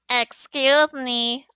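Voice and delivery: slow sheepish "Excuse me"; apologize, a little embarrassed; sheepish apology. Shown as a demonstration. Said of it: "also like this".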